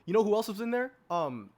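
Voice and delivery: loud, high-pitched, insistent listing; worked-up fan pressing the case; impassioned arguing. Real, not acted. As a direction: pile up the evidence with rising fervor. Heatedly arguing his pick's case.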